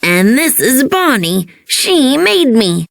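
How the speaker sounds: lightly voiced toy Forky; a hint of a little toy voice, slow on the end; girl doing her toy's voice, barely changed. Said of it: "using her Forky voice".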